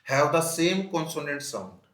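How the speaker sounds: slow and loud, word by word; emphatic slow reading; slow dictation. Shown as a demonstration. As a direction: dictate it to the class. Teacher dictates definition.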